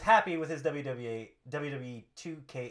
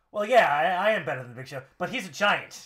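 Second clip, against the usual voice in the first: indignant wrestler; 2 semitones higher, 7 dB louder than usual. Acted. Acting Rusev's indignant reply.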